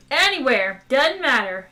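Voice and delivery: loud impatient shout. Acted. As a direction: shout it, just get moving. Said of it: "shouted Zaphod".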